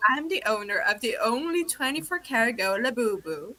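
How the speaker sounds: lightly imitated catchphrase from a clip; a hint of the viral Labubu woman; mimicking a viral-video speaker. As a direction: recite her line in her steady cadence. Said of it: "a compilation of her going".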